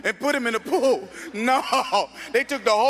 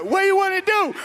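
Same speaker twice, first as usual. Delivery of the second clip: loud, high fight taunt; mock challenge; 9 semitones higher, 4 dB louder than usual. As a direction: dare him to fight, way up high. Retold challenge before fight.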